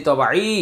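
তবাই with the final ee held long; one-alif stretch. Shown as a demonstration. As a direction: draw out the last vowel of তবাই. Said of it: "এক আলিফ টেনে পড়তে হয়".

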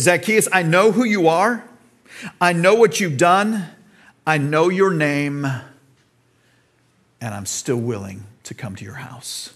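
calls out, then drops to a hush; Jesus speaking. Acted. Jesus telling Zacchaeus he still comes, dropping to a hush.

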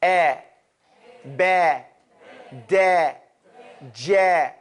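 each syllable said with the mouth wide open; open fath. Shown as a demonstration. Teacher showing fath, mouth wide open. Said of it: "That's opening up your mouth".

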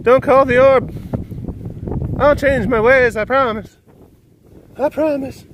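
tiny high begging voice; pleading little pests. Pretend.

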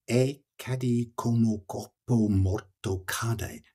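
slow, weighted Italian verse line; poetry recitation. Shown as a demonstration. Rereading the last line of the canto, poetry recitation. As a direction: recite the line slowly, word by word. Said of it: "if we look at the Italian".

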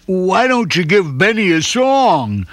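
slow, friendly suggestion; a hint of a puppy voice; lightly voiced Smuggles. A narrator's reading. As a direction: offer the idea gently. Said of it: "Smuggles came up with an idea".

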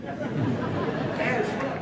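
slow drawn-out whisper; hushed, stretched-out stress; whispered emphasis. Real, not acted. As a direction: breathe it out slowly for weight. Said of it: "I needed it".

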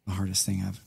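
soft, low voice holding back tears; quiet grief. Real, not acted. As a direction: speak quietly about losing your dad. Telling of father's death.

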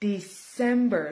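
"December" with "CEM" stressed; stress on second syllable. Shown as a demonstration. Teacher showing learners where "December" is stressed. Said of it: "เน้นพยางค์ที่สอง".

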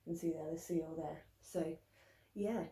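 muffled behind cloth mask; speaking with mouth covered; through a face mask. Real, not acted. Seen 1: cloth mask covers mouth and nose throughout the labelled words.

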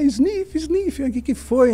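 playfully imitated weepy voice; mock tearful. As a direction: act out someone half crying, spoken sniffs and all. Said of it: "aquele, meio que chorando".

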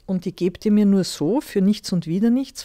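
can't believe it's free; surprised. A narrator's reading. Eldest son surprised the old woman offers gold. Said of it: "fragte der Bursche überrascht".

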